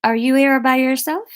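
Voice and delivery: put-on stagey sitcom French accent; 'Allo 'Allo French. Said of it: "It's very allo, allo French".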